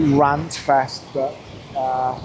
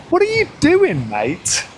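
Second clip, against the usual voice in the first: shouting at a driver; 13 semitones higher than usual. Real, not acted. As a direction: yell it out, half amused.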